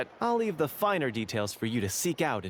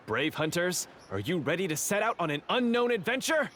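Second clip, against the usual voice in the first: lightly theatrical storyteller, a touch higher as it goes; game master voice; 5 semitones higher than usual. Acted. Script manager greeting the players as brave hunters, lightly theatrical. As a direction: open the adventure like a grand quest narrator. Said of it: "just one sentence and it's like we're in the story already".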